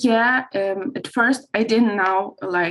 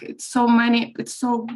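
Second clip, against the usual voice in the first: emotional, catching breath between words; breath catching as she fights tears; catching breath midword. Real, not acted. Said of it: "I'm sorry I'm emotional about this".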